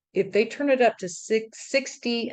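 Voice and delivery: talking around a retainer; slightly lisped words round a retainer; wearing a retainer. Real, not acted. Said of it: "I can't talk with this retainer".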